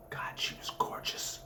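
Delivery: breathless hushed whisper; awed whisper. A narrator's reading. Maniac staring at the gorgeous blonde, whispered in awe. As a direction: breathe it out, smitten.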